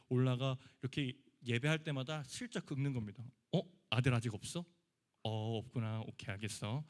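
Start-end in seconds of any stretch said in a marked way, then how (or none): 3.5-6.8 needling taunt. Retold or imitated. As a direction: dig at her sweetly. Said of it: "이렇게 계속 긁는 거예요". (한나를 슬쩍 긁는 경쟁자의 비아냥)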